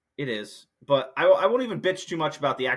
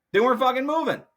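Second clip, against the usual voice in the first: higher and louder exasperated repeat; 11 semitones higher, 5 dB louder, faster than usual. Real, not acted. Repeating that spectators wouldn't move, exasperated and louder. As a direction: hammer the point home in frustration.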